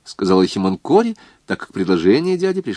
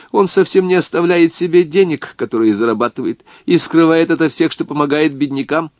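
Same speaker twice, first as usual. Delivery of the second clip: shrill nagging grandma; 4 semitones higher than usual. Acted. Old woman praises son.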